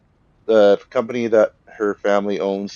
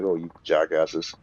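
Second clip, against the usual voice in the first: exasperated; 3 semitones lower, 4 dB quieter, slower than usual. Retold or imitated. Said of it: "she's just like".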